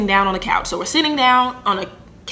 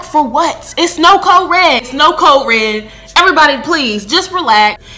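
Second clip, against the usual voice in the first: urgent calming plea; 5 semitones higher, 4 dB louder than usual. Retold or imitated. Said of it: "I'm trying to calm Mark down".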